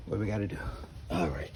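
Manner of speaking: straining grunts while lifting; effortful words through grunts; grunting. Real, not acted. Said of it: "Don't mind the grunting".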